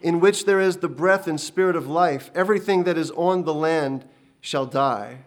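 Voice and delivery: loud, booming divine proclamation of doom; mighty and terrible heavenly sentence; voice of God. Acted. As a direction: thunder the judgment down. God's voice announcing the flood.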